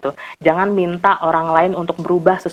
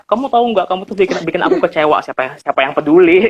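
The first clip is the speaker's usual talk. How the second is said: mock accusation; faster than usual. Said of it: "nyampein ke orang yang baru kamu kenal".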